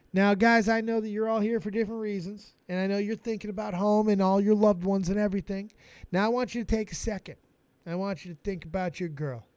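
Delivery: fast, fake soothing bedtime-story voice; mock tender sergeant. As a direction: play the sergeant lulling recruits.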